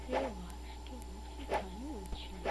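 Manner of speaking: soft unvoiced whisper. Real, not acted. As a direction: whisper it to yourself. Same words whispered.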